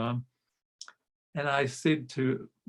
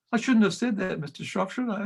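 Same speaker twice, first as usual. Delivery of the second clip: higher, contrite little voice; sheepish boy; 6 semitones higher than usual. Retold or imitated. Boy sheepishly admitting fault to the choirmaster. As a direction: sound like a kid owning up.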